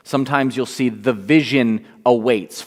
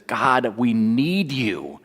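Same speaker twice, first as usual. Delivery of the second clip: pleading; 3 semitones lower, 4 dB quieter, slower than usual. Acted. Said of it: "Habakkuk cries out".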